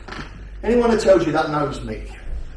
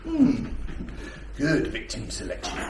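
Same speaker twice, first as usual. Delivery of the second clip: predatory muse; 3 semitones lower, 7 dB quieter than usual. Retold or imitated. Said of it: "probing my toe in the water".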